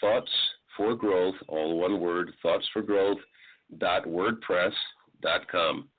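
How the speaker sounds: word by word, pausing between each piece; spelled out for the listener. Shown as a demonstration. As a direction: dictate the blog address slowly and clearly. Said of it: "you can just type this in".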